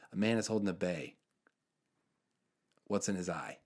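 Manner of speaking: put-on deadpan riddle in a light Jersey accent. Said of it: "and he's from Jersey".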